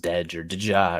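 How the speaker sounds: "Dej" as one syllable, "Deja" as two; deliberate mispronunciation. Shown as a demonstration. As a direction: run the initials into a word, "Dej" or "Deja". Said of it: "Should have mispronounced".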